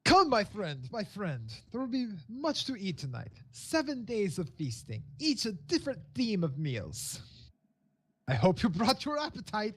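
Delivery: affectionate host. Acted. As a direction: usher a friend in to a feast. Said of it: "as he pats your stomach affectionately".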